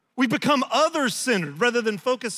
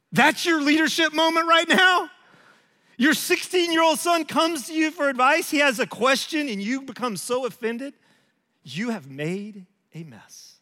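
God's rebuke; 5 semitones higher than usual. Retold or imitated. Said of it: "it's like I hear God go".

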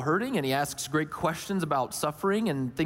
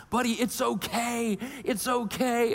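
higher-pitched soothing parent voice; comforting dad; 5 semitones higher than usual. Retold or imitated. Dad trying to comfort his crying son, soothing. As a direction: reassure an upset little child. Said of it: "trying to comfort him".

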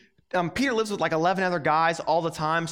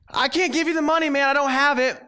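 choked servant; 7 semitones higher, 5 dB louder than usual. Retold or imitated.

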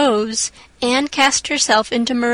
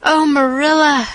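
louder, higher gasp of excitement; breathless exclamation; 4 semitones higher, 4 dB louder than usual. A narrator's reading. Anne runs in to tell Marilla, breathless and thrilled. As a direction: burst in out of breath with news. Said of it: "she exclaimed breathlessly".

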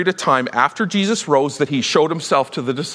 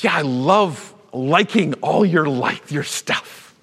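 casual flattery; slower than usual. Retold or imitated. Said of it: "He says".

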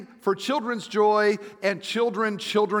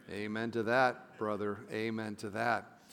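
low, subdued amen; dads' weary amen; 7 semitones lower, 8 dB quieter than usual. Acted. Pastor voicing the dads' reply, low and subdued amen. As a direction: answer for the dads, soft and low.

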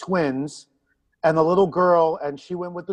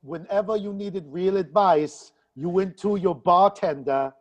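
lightly voiced counselor, piling on complaints; mild mock reproach, in character; Deanna Troi. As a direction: scold the captain as his slighted counselor. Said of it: "I am Deanna Troi".

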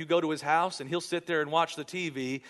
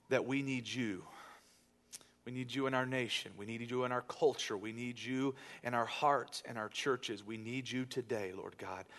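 prayer; 2 semitones lower than usual. Acted. Pastor leads congregation in prayer.

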